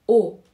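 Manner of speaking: او as a pure rounded "o"; isolated او for the undotted Turkish O; Turkish O demo. Shown as a demonstration. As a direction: sound out او alone, a back "o".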